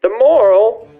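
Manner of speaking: put-on Savannah accent. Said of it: "giving him a Savannah accent".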